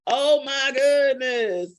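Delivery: slow, drawn-out mock exasperation; playful comedian's scolding; Martin Lawrence. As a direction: stretch it out in comic dismay. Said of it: "in my Martin Lawrence voice".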